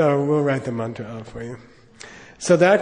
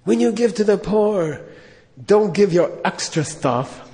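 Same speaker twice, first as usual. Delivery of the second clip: lightly voiced Pope preaching from the stadium; imitating the Pope; 3 semitones higher, slower than usual. Retelling the Pope at Giants Stadium, light sermon voice. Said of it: "he's, like, saying".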